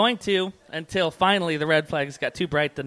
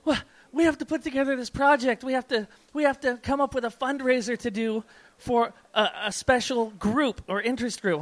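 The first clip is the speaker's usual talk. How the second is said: higher-pitched, imitated eager girlfriend; excited girlfriend; 7 semitones higher than usual. Girlfriend home from class announcing a project, imitated excitement. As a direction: imitate her bubbling over with a project. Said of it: "she came home all excited one day".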